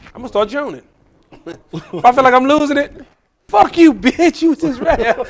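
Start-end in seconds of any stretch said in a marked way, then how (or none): 3.5-5.2 high, loud pretend heckler-bashing; mock attack. Comic losing the room turns on the crowd, mock attack. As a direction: lash out at the audience, hammed up. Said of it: "I'm gonna attack".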